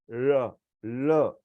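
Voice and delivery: ल said without the tongue touching the teeth; ल shown with the tongue held back; ल demo. Shown as a demonstration. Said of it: "तीन अलग-अलग तरीके दिखाए".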